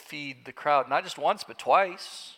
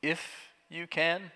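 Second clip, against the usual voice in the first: incredulous echo; 2 semitones higher, 5 dB quieter, slower than usual. Acted. Jesus echoes the doubt.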